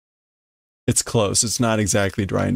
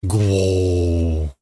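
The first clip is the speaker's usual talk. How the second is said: mock snore; 4 semitones lower than usual. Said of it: "Is that supposed to be snoring?".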